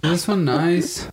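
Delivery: slow, laughing through it. Real, not acted. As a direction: laugh while you talk. Tasting food, laughing.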